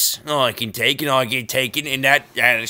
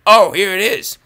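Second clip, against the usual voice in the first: high, louder "Oh, here it is" with a sudden lift on "Oh"; surprised discovery; 7 semitones higher, 8 dB louder than usual. Real, not acted. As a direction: sing out the find. Repeats with more surprise.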